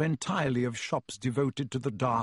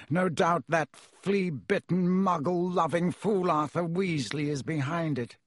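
slow, high, scornful nobleman; contemptuous aristocrat; 4 semitones higher than usual. Acted. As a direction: sneer at the meddlers. Malfoy voiced by reader.

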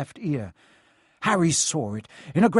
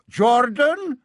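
high, loud reproof; growled warning; 9 semitones higher, 6 dB louder than usual. A narrator's reading. Professor cutting off the biased commentator, growled reproof. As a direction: snap the name as a stern professor. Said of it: "growled Professor McGonagall".

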